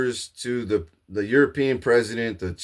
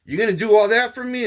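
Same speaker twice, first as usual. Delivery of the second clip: higher, louder astonished repeat; overwhelmed gratitude, pitched up; touched disbelief; 10 semitones higher, 4 dB louder, faster than usual. Retold or imitated. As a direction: say it like nobody ever did this for you. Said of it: "Nobody's ever gave me that kind".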